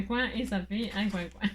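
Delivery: coin coin spoken through laughter; laughing. Real, not acted. To her viewers, giggling at the duck pun. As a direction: crack yourself up mid-word.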